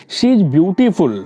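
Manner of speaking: She is beautiful read out slowly, word by word; a teacher spelling out an example at a slow pace. Shown as a demonstration. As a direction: dictate the example sentence slowly for the class. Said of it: "beautiful बता रहा है".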